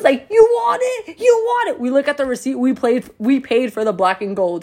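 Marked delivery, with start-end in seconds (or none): 0.3-1.8 high, playful teasing repeat; teasing boyfriend. Retold or imitated. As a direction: dangle the offer playfully.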